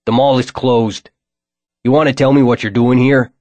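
mild stern challenge from a mall cop; gruff guard. Acted. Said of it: "said a gruff voice".

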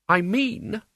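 high, cutting interruption; razor tones. A narrator's reading. Isabel cutting Albert off, in razor tones. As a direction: cut in with a razor edge. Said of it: "said Isabel in razor tones".

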